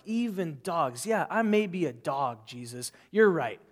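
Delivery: humble persistence. Retold or imitated. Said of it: "she owns this statement".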